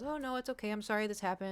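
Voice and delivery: smooth over the awkwardness kindly; polite reassurance. Retold or imitated. Acting out neighbour's polite apology.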